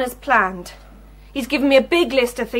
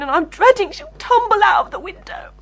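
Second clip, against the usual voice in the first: fearful whisper; 6 semitones higher than usual. Acted. Crying mother fears for daughter.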